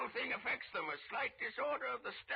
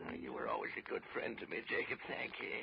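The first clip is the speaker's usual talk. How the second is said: frightened whisper; 12 semitones lower, faster than usual. Acted. Frightened Scrooge pleads.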